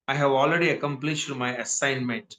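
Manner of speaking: slow, careful teacher model; slow model reading. Shown as a demonstration. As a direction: read it slowly to show the word. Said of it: "teacher model line". (నెమ్మదిగా చదవడం)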